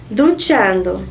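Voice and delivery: duchando stressed on the middle syllable chan. Shown as a demonstration. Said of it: "a sílaba mais forte é o chan".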